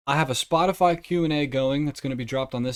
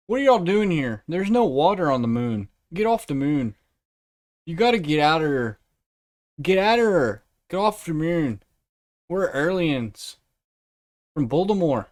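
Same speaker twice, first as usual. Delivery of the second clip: mock alien shooing Earthlings away in a hood Baltimore accent, louder; 3 semitones higher, 4 dB louder than usual. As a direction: bark it out in a street Baltimore accent, tough and dismissive. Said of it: "a hood Baltimore accent".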